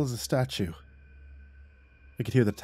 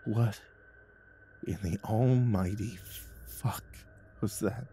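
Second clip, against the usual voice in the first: quavering; 9 dB quieter, slower than usual. Acted.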